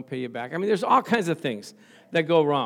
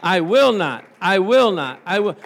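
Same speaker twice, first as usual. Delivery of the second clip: "will" punched, much louder; emphatic declaration; 3 semitones higher, 10 dB louder than usual. Shown as a demonstration. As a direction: drive home "I will not" with force. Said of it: "more specific or emphatic than that".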